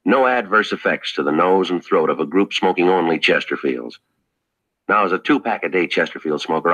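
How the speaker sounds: friendly sponsor pitch; ad read. Acted. Star pitching the sponsor's cigarettes to listeners, friendly and sincere. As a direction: sell it to the friends at home, sincere.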